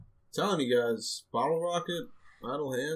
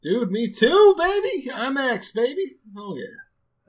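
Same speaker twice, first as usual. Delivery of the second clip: high, loud hyped cheer; excited; 12 semitones higher, 7 dB louder, slower than usual. Real, not acted. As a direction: yell it like a hyped fan. Hyped about Godzilla IMAX.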